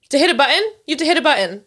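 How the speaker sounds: re-enacted exasperated nagging; incredulous retort. Acted quarrel over the Roomba.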